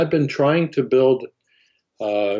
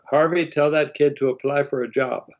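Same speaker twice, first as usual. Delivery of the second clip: lightly voiced old man, pitched higher; C F Martin; 5 semitones higher than usual. Aged company head to his foreman, lightly imitated old man. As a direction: imitate an elderly boss giving an instruction. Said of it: "eighty-five years old at the time".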